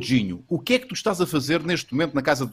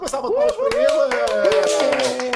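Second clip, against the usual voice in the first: announcer call; 7 semitones higher, slower than usual. Acted. Host announcing second guest.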